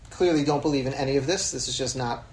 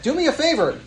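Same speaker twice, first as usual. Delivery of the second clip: higher and louder, exasperated; exasperated challenge; 6 semitones higher, 8 dB louder than usual. Retold or imitated. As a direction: call his bluff, louder and higher. Challenging the rabbi's platitudes.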